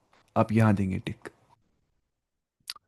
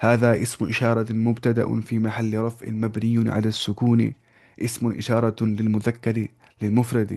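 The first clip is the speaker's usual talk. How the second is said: slow, deliberate Arabic parsing; teacher reciting the parsing slowly; slow grammar recitation; slower than usual. Shown as a demonstration. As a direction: recite each term slowly for students to copy. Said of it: "تو ایسے بولنا ہے".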